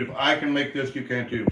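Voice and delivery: talking while chewing; words around a bite of food; mouth full. Real, not acted. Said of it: "Sorry, I'm sitting there talking with my mouth open".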